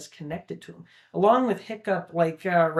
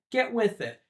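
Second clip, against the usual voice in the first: short higher-pitched order, lightly acted; blunt demand; 6 semitones higher than usual. Father in the original ordering his son, lightly mimicked blunt demand. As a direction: give a retold impatient command. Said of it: "it's more of a plea from both their sides, rather in the original".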